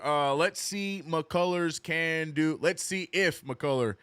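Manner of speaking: put-on slow, drawn Southern accent on "let's see McCullough". Streamer accidentally reads a chat line in a Southern accent. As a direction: read the name like a lazy Southern drawl. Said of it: "like a Southern accent".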